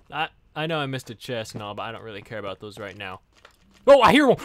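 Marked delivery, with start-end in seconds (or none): 3.9-4.4 excited. Real, not acted. Hears a wither skeleton nearby.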